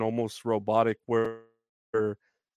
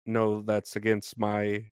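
flat robotic refusal. Retold or imitated. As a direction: stiff chatbot refusing, robot voice. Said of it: "I sound like a robot saying it".

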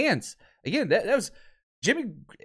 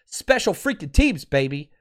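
excited. Real, not acted. Hyped about special teams.

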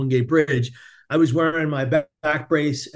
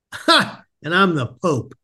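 disbelieving; 2 semitones higher, slower than usual. Retold or imitated. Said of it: "He didn't believe me".

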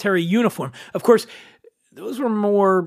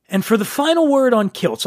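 ordinary talk, nothing marked

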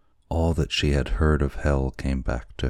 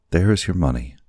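put-on urgent young wife. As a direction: demand it with urgency. Kokua urgent.

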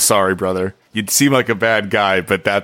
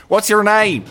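high, loud, eager call; excited running call; eager shout; 11 semitones higher, 4 dB louder than usual. Acted. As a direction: shout it up at her, starstruck. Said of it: "be like".

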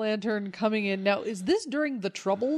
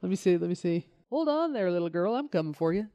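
put-on Irish accent; faster than usual. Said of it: "Can I do an Irish accent?".

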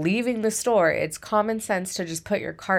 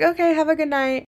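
imitating a sweet, higher, brightly polite goodbye; calm and polite; 11 semitones higher, 4 dB louder, faster than usual. Coworker bidding angry customer goodbye, mock polite calm. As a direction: play it calm, unbothered and chirpy. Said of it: "calm, level-headed".

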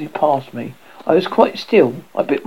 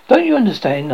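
savagely; 6 semitones higher, 4 dB louder, faster than usual. A narrator's reading. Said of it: "I said savagely".

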